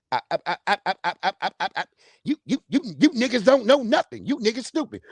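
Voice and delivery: stammering repeated I before a rant; imitating a stuttering celebrity rant; mock stutter. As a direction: stutter through it like the man.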